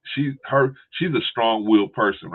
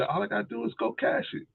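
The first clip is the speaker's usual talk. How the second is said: imitating excited sister; 7 dB quieter than usual. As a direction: stretch it out up high, showing off the check. Sister, quoted.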